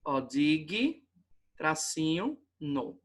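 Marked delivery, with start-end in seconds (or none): 0.2-1.1 "dig" set apart as one syllable, with a sounded g; sílaba isolada. Shown as a demonstration. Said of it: "a separação correta da palavrinha". 2.6-3.0 "no" set apart, lower and softer; sílaba isolada. Shown as a demonstration. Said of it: "a separação correta da palavrinha".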